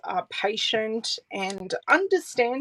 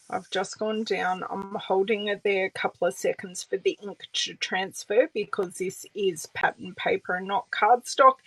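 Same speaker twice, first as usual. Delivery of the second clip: ordinary talk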